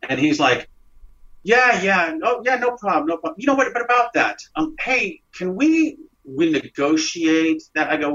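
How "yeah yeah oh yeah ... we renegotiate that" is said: higher, overly eager brush-off, slowing at the ask; a shifty boss smoothing over unpaid wages; evasive boss. Retold or imitated. Boss dodging paying his new employee.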